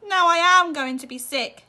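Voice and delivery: desperate yell. A narrator's reading. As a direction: yell it, about to retch. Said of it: "yelled Missus T V".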